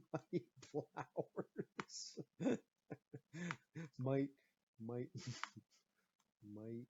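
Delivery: laughing through the words; cracking up mid-rhyme; giggling while trying rhymes. Real, not acted.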